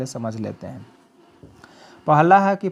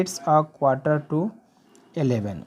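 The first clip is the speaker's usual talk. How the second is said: slow model sentence; much slower than usual. Shown as a demonstration. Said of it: "teacher models English time".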